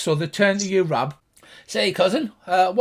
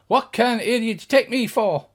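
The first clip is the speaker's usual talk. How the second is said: irate gnome; 5 semitones higher, 5 dB louder than usual. Acted. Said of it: "He says".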